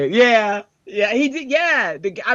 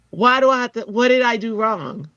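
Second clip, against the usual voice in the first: put-on higher-pitched kid's protest; imitated loud child; 6 semitones higher than usual. Pebbles objects to being hushed by mom, loud child. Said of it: "she's so loud".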